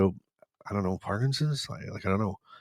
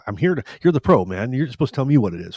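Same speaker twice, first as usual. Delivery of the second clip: exasperated retort; 4 semitones higher, 6 dB louder than usual. Retold or imitated. Retelling frustration with the doctor.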